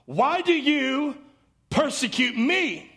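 lightly voiced Jesus, slow and pleading; a hint of Jesus calling from heaven, slowed. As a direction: draw each word out gently, slowly. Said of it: "he heard a voice say to him".

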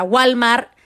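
"Walmart" como "gualmar", con acento mexicano. Shown as a demonstration. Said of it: "mi inglés es de acento así mexicano". (inglés con acento mexicano: "gualmar")

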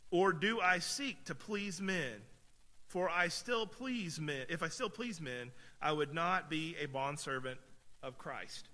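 slow, weighty reading of scripture; measured pulpit scripture reading. Acted. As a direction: read it out with solemn emphasis. Reads scripture aloud slowly.

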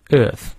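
"Earth" with a silent r; British EARTH. Shown as a demonstration. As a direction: say "Earth" without the r, British style. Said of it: "那个R不念".

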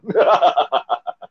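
hammed-up villain cackle; evil villain laugh. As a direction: cackle like a cartoon bad guy.

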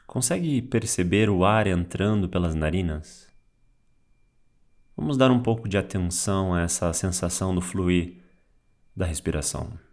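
calm meditation guide with long pauses; unhurried, guiding words, spaced out for breathing; guided meditation. Real, not acted. Teacher guides listener through waking-up body awareness, guided meditation. Leads a guided mindfulness practice.

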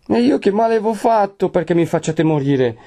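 high, anguished wail; desperate plea. A narrator's reading. Lucia on her knees before Renzo, desperately pleading. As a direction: implore him in despair. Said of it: "buttandosi gli inginocchioni davanti".

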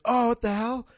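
high mock startled girlfriend; imitating drunk girlfriend. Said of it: "she's like".

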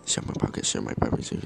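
whispered hidden message; subliminal whisper. Shown as a demonstration. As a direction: breathe it in their ear like a hypnotist. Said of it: "plant subliminal message".

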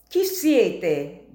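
sharp loud challenge; shouting. Acted. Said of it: "gridò".

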